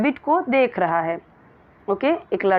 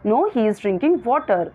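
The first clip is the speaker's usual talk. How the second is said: slow, clear classroom read; slow reading aloud; much slower than usual. Shown as a demonstration. Teacher reading the question to her pupils slowly. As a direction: read each word out very slowly.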